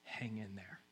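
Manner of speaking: very soft, low murmur; barely voiced reassurance; whispered encouragement. God answers those praying and praying, near whisper. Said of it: "he's whispering".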